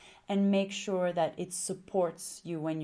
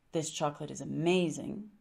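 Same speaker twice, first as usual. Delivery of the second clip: lower, settled ending on "amazing"; statement intonation; 4 semitones lower than usual. Shown as a demonstration. Coach showing a confident statement, no question rise on "amazing". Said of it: "your voice can either stay the same".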